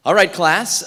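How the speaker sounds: loud classroom call; calling the class. Acted. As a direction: call the room to attention over the chatter. Teacher calling class to order.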